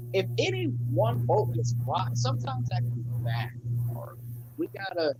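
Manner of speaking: popping, cutting-out mic; crackly usb mic. Real, not acted. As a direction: audio breaking up over a bad mic. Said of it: "your mic is popping and going in and out".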